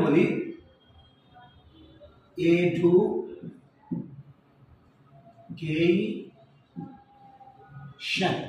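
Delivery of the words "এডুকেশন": এডুকেশন stretched very slowly in a British accent; drawn-out British accent. Shown as a demonstration. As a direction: draw out এডুকেশন, British style. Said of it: "এখানে একটা lapse করেছে".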